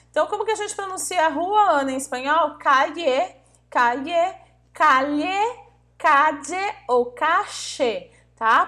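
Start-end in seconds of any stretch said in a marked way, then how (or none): 2.6-8.1 "calle" said with y, then j, then l, then sh sounds; variants of calle. Shown as a demonstration. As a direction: run through each way to say "calle". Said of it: "Podemos falar dessas formas".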